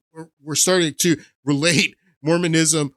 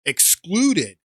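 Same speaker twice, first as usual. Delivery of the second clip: mock pearl-clutching. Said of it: "Mormons clutching their pearls saying".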